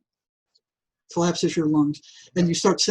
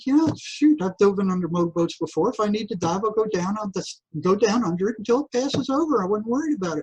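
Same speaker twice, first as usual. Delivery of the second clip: casual dismissal; 3 semitones higher than usual. Retold or imitated. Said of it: "And I'm going".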